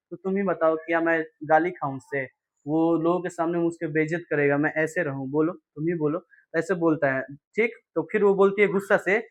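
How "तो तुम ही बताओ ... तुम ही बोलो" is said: quiet, downcast plea, voice sinking; a poor farmer pleading sadly, softly. Acted. Poor Halku pleads sadly with his wife, quietly. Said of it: "बेचारा हल्कू उदास होकर बोलता है".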